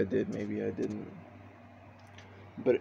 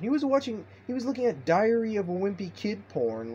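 1 shocked reveal; 9 semitones higher than usual. Real, not acted.

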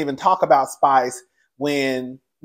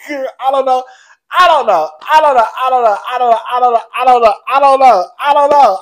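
high, loud rapid-fire repeats; helpless giggling I don't know; laughing; 8 semitones higher, 8 dB louder, faster than usual. Real, not acted. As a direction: keep saying it, cracking up.

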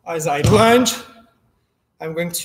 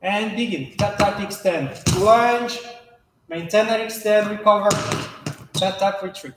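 crisp fencing commands. Shown as a demonstration. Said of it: "Ten repetition once again".

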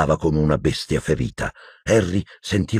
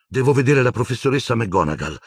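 panting; 7 semitones higher than usual. A narrator's reading. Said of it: "ansimò Harry".

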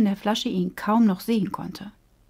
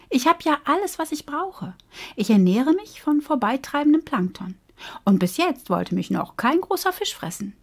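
bright, lightly raised fish voice, chatty; a happy little fish chattering away; cheerful little fish; 6 semitones higher than usual. Acted. The cheerful fish chatting with Bo, lightly raised voice.

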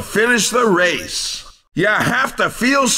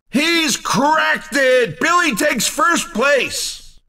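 excited winner call; 4 semitones higher, slower than usual. Acted. Announcer calling the win.

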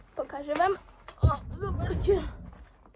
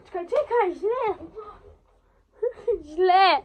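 frustrated shout; 4 semitones higher, 9 dB louder, slower than usual. Real, not acted. Filming goes wrong, frustrated.

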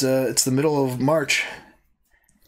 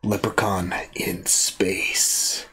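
dramatic whisper; much slower than usual. Acted. Announcing the movie title.

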